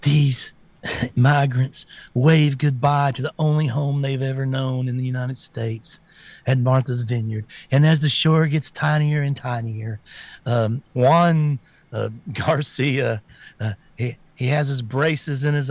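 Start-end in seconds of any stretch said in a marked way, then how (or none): 0.0-10.0 mock news reporter. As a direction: parody a sappy news piece, slowed down. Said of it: "and they're saying".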